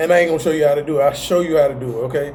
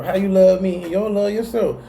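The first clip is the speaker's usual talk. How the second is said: quoted partner; 4 semitones higher than usual. Retold or imitated. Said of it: "heard that in your relationship".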